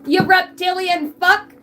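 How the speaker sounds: slow, high, loud playful jab; mock insult. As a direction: drag out a teasing insult.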